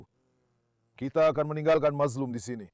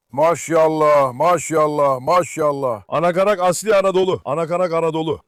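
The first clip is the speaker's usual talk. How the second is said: awed exclamation; 7 dB louder than usual. Real, not acted. Watching his pigeons fly, awed.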